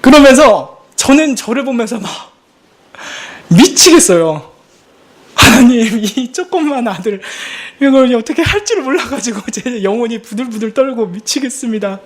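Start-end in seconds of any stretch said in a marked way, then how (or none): 5.3-12.0 high, lamenting cry to God; reenacted desperate, weepy prayer; imitated tearful prayer. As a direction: plead with God as if weeping. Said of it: "그러면서 막 하나님을 울어요".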